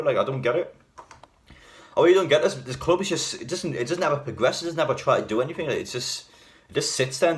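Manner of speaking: exasperated. Real, not acted. Ranting about the club's inaction.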